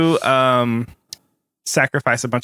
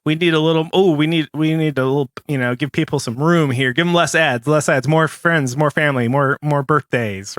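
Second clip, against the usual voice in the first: lightly voiced, busy dial-turner improvising; a hint of a boss calling out adjustments; lightly acted executive; 2 semitones higher than usual. Host playing Facebook boss at the dials, mock-urgent.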